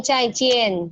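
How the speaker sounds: "Cai Cien" said slowly as Mandarin zaijian; teacher modelling "Cai Cien" for students; Mandarin demo. Shown as a demonstration. Teacher models a Mandarin word for class, slow and clear. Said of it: "jadi ini Cai Cien".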